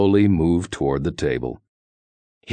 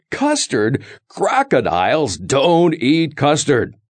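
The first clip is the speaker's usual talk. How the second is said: louder storybook crocodile, punching don't; louder fiercer crocodile; 6 semitones higher, 4 dB louder than usual. Acted. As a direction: fiercer crocodile refusal, raised voice. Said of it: "In a louder and fiercer voice".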